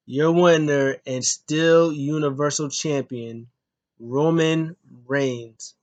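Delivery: slow, drawn out announcement; imitating the winner announcement; ring announcer. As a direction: stretch every word like a ring announcer. Ring announcer introducing the champion.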